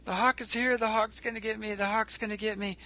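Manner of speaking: high, repetitive mock panic; frantic rabbit. Storyteller voices the thrashing rabbit, frantic. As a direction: play a rabbit going crazy with fear. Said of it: "the rabbit starts thrashing around".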